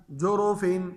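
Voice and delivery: "जोरोफिन" ending on a clear n; no ghunna. Shown as a demonstration. Teacher tells students no ghunna in tanween, clean n in "जोरोफिन". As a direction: end "जोरोफिन" without any nasal hum. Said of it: "तनवीन में गुन्ना नहीं करेंगे".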